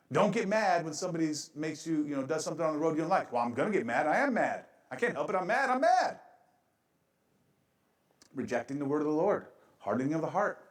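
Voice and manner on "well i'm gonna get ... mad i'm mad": mock angry driver. Preacher acts a driver justifying his road rage, building mock anger. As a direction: work yourself up into hammed-up anger.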